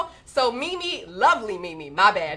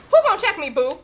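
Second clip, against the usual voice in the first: sassy high challenge; 6 semitones higher, 6 dB louder, faster than usual. Retold or imitated. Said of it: "Joy Minnie says".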